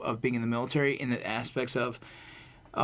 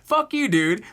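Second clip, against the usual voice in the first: loud outburst; 7 semitones higher, 6 dB louder, slower than usual. Real, not acted. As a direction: burst out loud, fed up. Heated rant about leading first.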